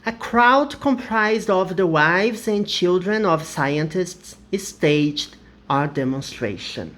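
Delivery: slow, careful English example; teacher's final example sentence; slow model sentence. Shown as a demonstration. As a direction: read the last example slowly. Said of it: "por último".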